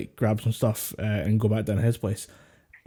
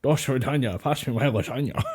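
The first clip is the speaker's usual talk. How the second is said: put-on Russian accent. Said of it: "thank you for doing that line".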